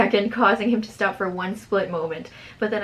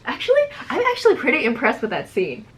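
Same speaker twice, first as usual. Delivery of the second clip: louder, laughing through words; 5 semitones higher, 4 dB louder than usual. Real, not acted. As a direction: chuckle while saying it. Laughing at own writing.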